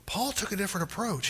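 usual speaking voice

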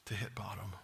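breathy hushed whisper; hushed sermon aside. Real, not acted. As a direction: drop to a near-whisper for the punchline. Pastor drops to hushed aside.

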